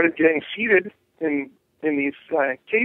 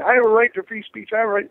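mock confrontational protest, pitched up; lightly acted higher-pitched defiance; 5 semitones higher, faster than usual. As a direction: imitate an activist insisting on their rights. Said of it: "they're confrontational from the beginning".

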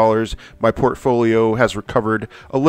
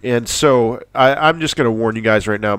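stuffy nose. Real, not acted. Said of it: "my nose is running like crazy".

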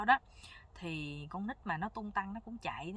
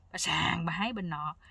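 normal talking voice

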